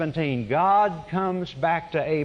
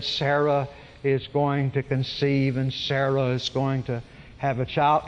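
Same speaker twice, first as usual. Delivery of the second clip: solemn godlike voice; 3 semitones lower than usual. Retold or imitated. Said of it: "solemn, godlike voice".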